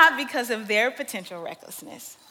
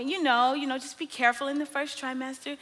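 sweet-talking friend; 4 semitones higher than usual. Retold or imitated. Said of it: "She talks like this and so sweet".

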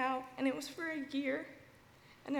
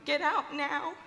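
urgent warning, every word punched; emphatic repeat; 6 dB louder, slower than usual. Real, not acted. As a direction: GET OUT NOW, louder and forceful. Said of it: "Say it again".

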